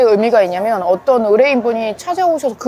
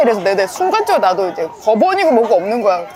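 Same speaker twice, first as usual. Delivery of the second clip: ordinary talk, nothing marked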